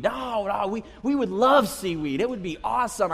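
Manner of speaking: mock child enthusiasm, slightly lifted; eager kids. Kids assuring dad they love seaweed, eager. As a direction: insist eagerly like pleading kids.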